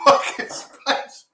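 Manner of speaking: breathless whisper. Real, not acted. Mouth burning from spice.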